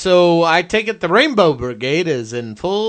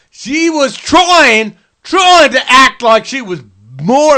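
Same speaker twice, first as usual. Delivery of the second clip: Jim Jeffries impression; 2 semitones higher than usual. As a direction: rant like an angry Aussie comic. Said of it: "can you Jim Jeffries this up for me".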